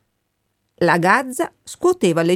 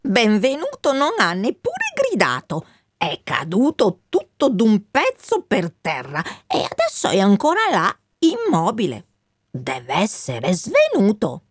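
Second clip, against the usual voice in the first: lightly voiced magpie reporting news; 3 semitones higher than usual. La Gazza riferisce al colonnello. (gazza che riferisce, voce un po' più acuta)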